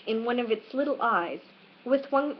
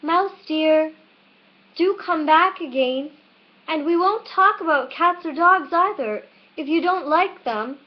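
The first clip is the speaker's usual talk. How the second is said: high, loud calling out to a mouse; calling after; 7 semitones higher, 5 dB louder than usual. A narrator's reading. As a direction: call after the mouse, pleading. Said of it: "she called softly after it".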